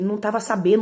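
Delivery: ordinary talk, nothing marked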